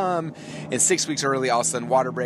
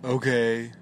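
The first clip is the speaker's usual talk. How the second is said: put-on bored teen okay. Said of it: "Bleh. You know, like teenagers do".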